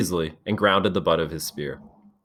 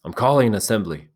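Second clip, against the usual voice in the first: firm, louder repeat; loud call; 4 semitones higher, 4 dB louder, faster than usual. Acted. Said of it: "Ralph spoke again, loudly".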